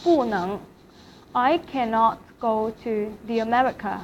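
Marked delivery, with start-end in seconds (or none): 0.0-0.6 不 falling, then 能 rising; fourth tone on 不. Shown as a demonstration. Teacher explaining the example, falling tone on 不. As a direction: drop 不 and lift 能. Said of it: "不 in fourth tone".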